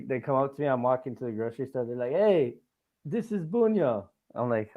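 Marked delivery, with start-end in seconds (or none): 2.1-4.1 lightly voiced kid calling out, higher; excited kid fan. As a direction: imitate a fan's drawn-out, higher call. Kids calling out on recognising him.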